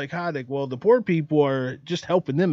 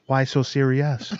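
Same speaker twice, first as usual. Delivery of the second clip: Joker impression; 5 semitones lower, slower than usual. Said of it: "they would say".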